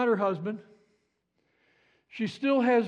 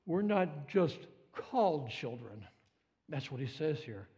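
hushed awe; 10 semitones lower, 9 dB quieter than usual. Real, not acted. Preacher hushing the congregation in awe, soft and low. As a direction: drop to a near hush, much softer and lower. Hushed emphasis on children of God.

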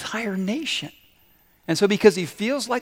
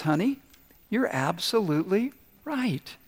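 soft placating; 3 semitones higher, 4 dB quieter than usual. Retold or imitated. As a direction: soothe her and surrender. Sage placating his wife.

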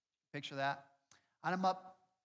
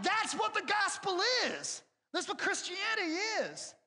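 emphatic retort; 3 dB louder than usual. Retold or imitated. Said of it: "I'm like".

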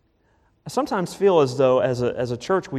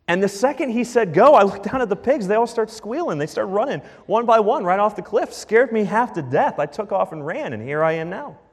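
herdsman retelling. Retold or imitated. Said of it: "It would have gone something like this".

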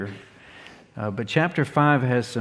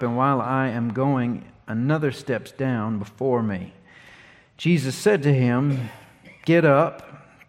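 scripture reading. Acted. Pastor reading John five to the church, measured and clear. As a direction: read the passage out to the congregation.

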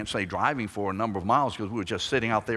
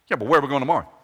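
louder fretful sheep asking; worried sheep; 3 semitones higher, 9 dB louder, much faster than usual. Acted. Sheep questioning David, louder and fretful. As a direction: whine about tomorrow like a sheep.

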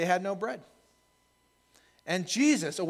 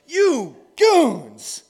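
louder, higher fond groan; fond exasperation; 8 semitones higher, 12 dB louder than usual. Retold or imitated. Jesus to his disciples, fond louder exasperation. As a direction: tease them like lovable fools. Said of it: "Jesus looks at his disciple and he's like".

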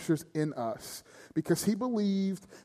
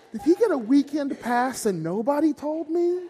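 high, louder and laughing through it; 11 semitones higher, 4 dB louder than usual. Real, not acted. Preacher jokes to the congregation, laughing high and loud. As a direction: ask it while still cracking up. Joking laughter about the stolen item.

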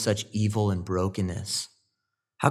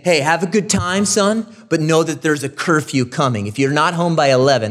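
a hint of a parent warning a son, a bit louder; mock stern father; 5 semitones higher, 5 dB louder than usual. Pastor imitating a father warning his son, mildly stern. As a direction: lightly play the curfew-setting dad. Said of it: "that's how it sounds".

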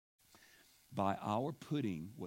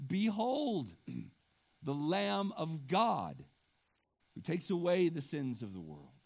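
Behold rung out high and loud; a preacher's loud climax; ringing proclamation; 3 semitones higher, 5 dB louder than usual. Acted. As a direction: cry it out to the whole congregation. Climactic quote of John.

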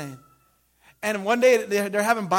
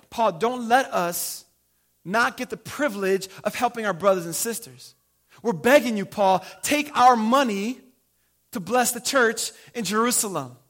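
earnest begging; 4 dB louder than usual. Retold or imitated. Church begging Paul to accept.

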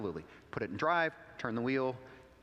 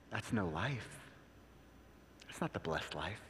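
low, grave counsel; 6 semitones lower, 8 dB quieter than usual. Retold or imitated. Pastor quoting his own counsel.

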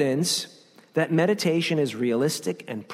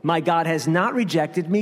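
firm, defiant denial; mildly acted defiant retort; talking smack back. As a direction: push back with each no. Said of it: "he talks smack back".

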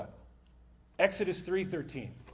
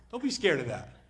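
firm reassurance. Real, not acted.

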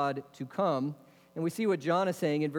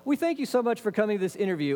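higher, quick imitation of a polite host; brisk, pitched-up mock host greeting; interviewer's welcome; 5 semitones higher, faster than usual. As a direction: lightly mimic an interviewer gushing thanks. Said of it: "the guy begins kind of like".

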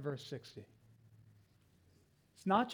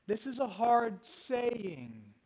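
slow emphatic reading; much slower than usual. Shown as a demonstration. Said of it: "Notice the emphasis on words".

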